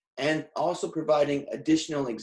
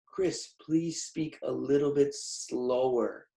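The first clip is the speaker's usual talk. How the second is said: drawn-out request quoting students; slow, measured imitation of a student plea; students' slow plea; 4 dB quieter, slower than usual. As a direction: quote the students, slowly and deliberately. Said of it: "a lot of students mention".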